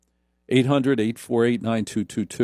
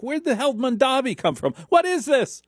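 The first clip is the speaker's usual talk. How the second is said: rising indignant disbelief; incredulous outburst; 10 semitones higher than usual. Real, not acted. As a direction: pitch shooting way up in disbelief. Host outraged at unknown candidate.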